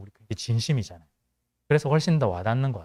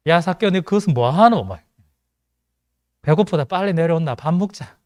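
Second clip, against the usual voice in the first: Gyeongsang dialect Jesus; 3 semitones higher than usual. Acted. Jesus calls Zacchaeus to come eat, in Gyeongsang dialect. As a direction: call him down like a gruff Gyeongsang man. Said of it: "경상도 사투리밖에 없는 것 같다".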